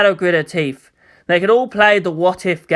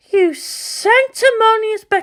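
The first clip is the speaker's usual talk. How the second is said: cut-off insult; slower than usual. Acted.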